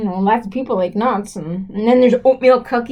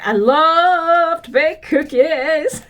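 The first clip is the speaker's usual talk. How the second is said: gushing declaration; 3 semitones higher, much slower than usual. Real, not acted. Declaring love of baking.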